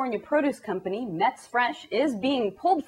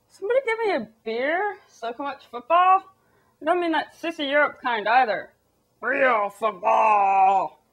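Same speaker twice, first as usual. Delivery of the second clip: a lightly voiced clueless American fan; mock yokel, a hint of beer-hall swagger; dumb American; 2 semitones higher than usual. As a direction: play a dopey sports fan bragging. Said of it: "Americans were like".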